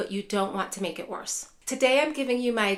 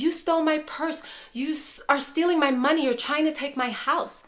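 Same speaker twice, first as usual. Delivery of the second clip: accusing mom; 5 semitones higher than usual. Retold or imitated. Mom accusing caregiver of theft, mock angry. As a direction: play the upset mother accusing her child. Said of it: "your mom storms into the room and says".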